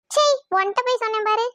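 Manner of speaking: mildly disgusted huff; huffy. Acted. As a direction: regret having told them, mildly cross. Lovers' tiff, first huffy take.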